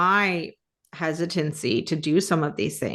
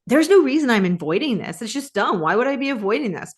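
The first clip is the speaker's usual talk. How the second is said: mildly scornful self-talk, pitched up; mean inner voice; 4 semitones higher than usual. Acted. Woman mocks herself for avoiding a task, lightly scornful. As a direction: scold yourself, as if it were obvious. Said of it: "voice that tells you how dumb you are".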